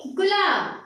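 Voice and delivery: गुलाब with a brief u; short vowel, light stress. Shown as a demonstration. Teacher dictating a short-u word to children, u kept brief. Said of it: "कम जोर लगाया".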